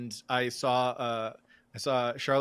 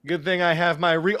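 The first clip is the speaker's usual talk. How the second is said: ordinary talk, nothing marked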